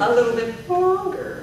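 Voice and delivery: teacher's model with a long "longer"; last word lengthened. Shown as a demonstration. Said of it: "the last word gets longer".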